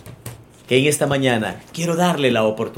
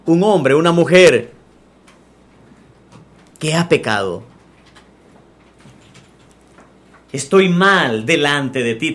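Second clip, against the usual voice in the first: model prayer; 2 semitones lower than usual. Acted. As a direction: pray it humbly for them to repeat. Leads sinner's prayer aloud.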